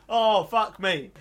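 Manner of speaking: drawn-out stunned oath; mock shock, drawn right out; slow disbelief. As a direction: let it out slowly, stunned. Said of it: "you're not like".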